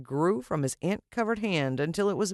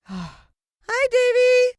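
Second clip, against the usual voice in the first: much louder, high call across a distance; yelling; 9 dB louder, much slower than usual. Retold or imitated. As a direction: call out to your son down the path. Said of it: "she yelled".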